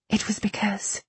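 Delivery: breathy whisper, no voice. A narrator's reading. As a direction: whisper it under your breath. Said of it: "she whispered".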